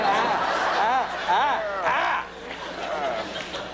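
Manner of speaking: short strained "ah" sounds; mock straining groan. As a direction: strain out a series of little groans. Acts out straining with enlarged prostate.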